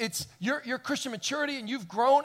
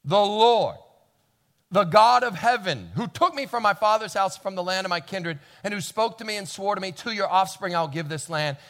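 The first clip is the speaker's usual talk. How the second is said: solemn declaration; 5 dB louder than usual. Retold or imitated. Abraham declaring God's faithfulness to the servant, loud. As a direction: proclaim God's promise. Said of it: "There's my answer to impossible".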